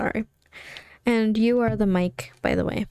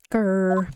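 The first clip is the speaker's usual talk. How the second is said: tiger growl. Acted. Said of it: "I do a great impersonation of a tiger".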